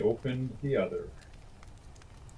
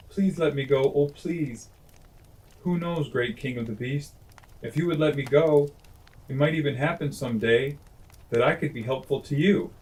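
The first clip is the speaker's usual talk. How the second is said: higher, pleading mouse voice; coaxing mouse; 4 semitones higher than usual. Acted. Trembling mouse coaxes the lion to let him go, higher. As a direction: beg and coax like a trembling mouse. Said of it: "began to coax harder and harder".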